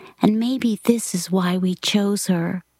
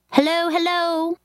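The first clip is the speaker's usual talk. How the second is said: voice from a well; 9 semitones higher than usual. A narrator's reading. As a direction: call up as if from the bottom of a well. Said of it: "as if she had fallen into a well".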